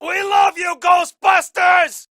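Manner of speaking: cheering fan. Acted. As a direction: cheer them on like an adoring fan.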